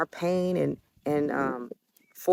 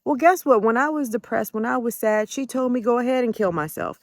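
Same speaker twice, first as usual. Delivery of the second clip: indignant; 6 semitones higher than usual. Real, not acted. Angry rant about mom.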